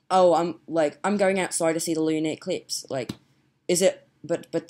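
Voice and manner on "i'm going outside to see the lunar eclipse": put-on Australian accent. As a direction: say it as an Australian would. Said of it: "talking in an Australian accent".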